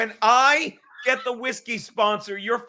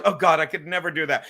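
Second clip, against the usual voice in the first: retold hunter; 5 semitones lower than usual. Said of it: "he goes".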